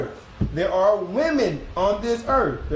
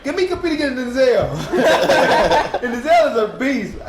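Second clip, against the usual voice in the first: laughing; 3 semitones higher, 5 dB louder than usual. Real, not acted. Laughing while praising Denzel.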